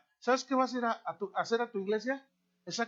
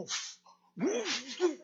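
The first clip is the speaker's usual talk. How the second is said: mock puffing; 6 semitones higher, much slower than usual. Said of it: "oí algo así como".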